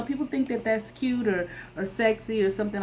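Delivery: ordinary talk, nothing marked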